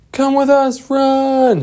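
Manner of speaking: high, loud urgent call; urgent high shout. Acted. Lost Boys calling the kids to run with them, high urgent shout. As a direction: yell at them to flee.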